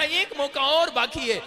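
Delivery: mild drawn-out mock shout; retold excited shouting. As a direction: act out an insistent call. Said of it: "चिल्लाने लगा".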